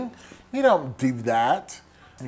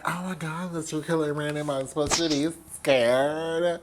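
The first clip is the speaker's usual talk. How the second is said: mock being scared; sarcastic; 4 dB quieter than usual. Tatum sarcastic with Ghostface.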